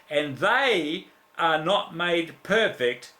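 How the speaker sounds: slow, solemn divine voice, lightly voiced; voice of God. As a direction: speak as God commanding, unhurried. God's voice quoted to preacher.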